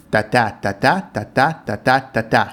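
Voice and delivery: five da-da pairs tapped out evenly; iambic pentameter beat. Shown as a demonstration. Showing viewers his translation's pentameter, counted da beats. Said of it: "I used iambic pentameter".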